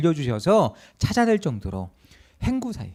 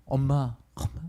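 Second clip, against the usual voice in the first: drawn-out mock lament, swelling louder at the end; acted wailing plea; 5 dB louder, slower than usual. Young passenger phoning mom on the train, acted wailing plea. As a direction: plead helplessly, stretching the last words. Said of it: "막 그러면서 막 하소연을 하는 거예요".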